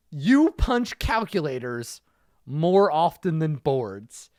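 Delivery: slow, relishing each word; slow savoring reread. Shown as a demonstration. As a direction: savor the insult slowly. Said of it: "Ooh, it hurts".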